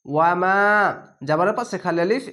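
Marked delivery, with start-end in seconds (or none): 0.1-0.6 "ওয়ামা" with a drawn-out final মা; recited "ওয়ামা", last vowel lengthened; one-alif elongation. Shown as a demonstration. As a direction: hold the আ of মা in ওয়ামা. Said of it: "এক আলিফ টেনে পড়বেন".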